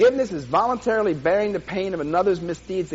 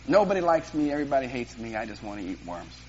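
mock self-pity; 4 semitones lower than usual. Self-pitying childhood rhyme.

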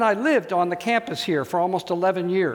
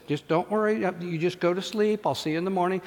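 soft soothing father; 3 dB quieter than usual. Retold or imitated.

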